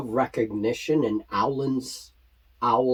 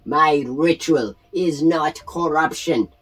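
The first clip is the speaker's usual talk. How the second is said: goblin shaman; 3 semitones higher, 3 dB louder than usual. Acted. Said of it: "He points at you ... and says".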